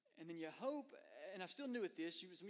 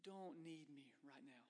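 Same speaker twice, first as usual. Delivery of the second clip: soft, slow, put-upon mutter; a low exasperated grumble, slowed; grudging sigh; 2 semitones lower, 8 dB quieter than usual. Retold or imitated. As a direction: say it through clenched teeth, annoyed. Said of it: "deep sigh, almost clench your teeth".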